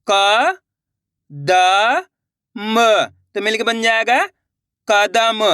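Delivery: क, द, म sounded one by one with pauses, then कदम; slow letter-by-letter reading. Shown as a demonstration. Teacher reading along with students, slow and separate. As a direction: spell it out slowly and blend into कदम. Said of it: "आपको ही मेरे साथ साथ पढ़ना है".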